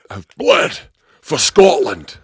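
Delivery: loud, high, mock-heroic roar; impassioned declaration. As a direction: proclaim it like a battle cry.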